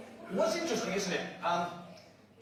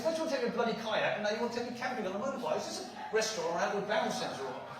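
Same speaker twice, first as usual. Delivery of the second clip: rapid-fire incredulous complaint; fast exasperated rant; 2 semitones higher, 4 dB quieter, much faster than usual. Retold or imitated. Ranting at his friend about the camping idea, fast and exasperated. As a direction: rattle it off in disbelief.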